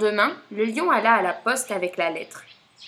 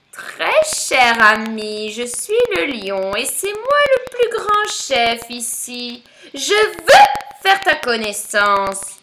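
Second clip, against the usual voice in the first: self-important vulture; 5 dB louder, slower than usual. Acted. Vulture writes pompously as the lion.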